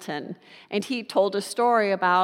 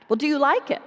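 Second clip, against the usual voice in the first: put-on higher, bright pleading child voice; a small daughter begging her dad; eager little girl; 7 semitones higher, 3 dB louder, faster than usual.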